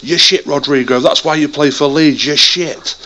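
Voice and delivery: rough southern English fan's jeer; southern English accent. Retold or imitated. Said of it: "a proper thick southern accent go".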